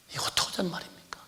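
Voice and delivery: quick urgent whisper; fast whisper. Real, not acted. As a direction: hiss the question quickly. Whispered rhetorical question. (빠르게 속삭이는 반문)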